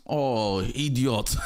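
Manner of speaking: lightly African-accented exclamation. Real, not acted. Scolding an absent father's logic, African accent. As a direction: let an African accent slip out. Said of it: "you have the African side coming out of me".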